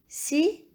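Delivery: signature. in four separated syllables. Shown as a demonstration. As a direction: pause after each syllable of "signature.". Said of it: "À quelle syllabe entends-tu".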